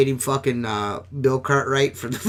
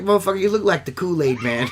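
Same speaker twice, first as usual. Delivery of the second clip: flippant laughing jab; 4 semitones higher, faster than usual. Retold or imitated.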